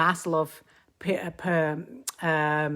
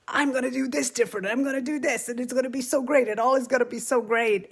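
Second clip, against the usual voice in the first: mock naive optimism; 8 semitones higher, faster than usual. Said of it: "we're like".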